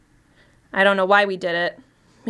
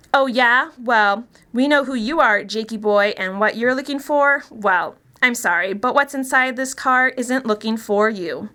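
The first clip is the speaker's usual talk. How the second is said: higher, mocking taunt, slowing at the end; taunting yell; 4 semitones higher than usual. Bethany taunting the abandoned man, a mocking higher yell. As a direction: gloat at him, then drag out the threat. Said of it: "Bethany starts yelling back".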